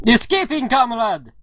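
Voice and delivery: put-on high-pitched, emphatic Russian accent; heavy Russian accent. Driver answers his passenger, heavy Russian accent. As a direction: call back in a thick Russian accent. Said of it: "a guy with a heavy Russian accent".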